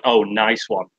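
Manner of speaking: slow, dry sarcastic Oh, nice one. Shown as a demonstration. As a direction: drag out Oh, nice one as if they fucked up. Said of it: "you're like".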